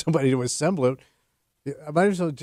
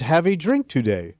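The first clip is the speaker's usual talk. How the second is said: put-on Swedish accent.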